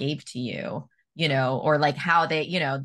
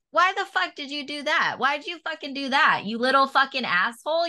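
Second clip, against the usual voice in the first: higher, pleading mock rage; retold anger; 9 semitones higher than usual. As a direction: scold the dead friend, hurt not shouting. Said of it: "And I was like".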